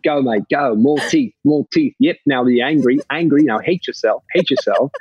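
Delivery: put-on egging him on in a light Kiwi accent; mock New Zealand director. Director coaching his solo scene over walkie, mock New Zealand accent. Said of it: "terrible New Zealand accent".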